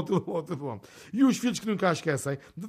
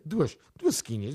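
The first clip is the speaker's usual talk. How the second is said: slow repeat. Shown as a demonstration. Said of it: "para duasinha".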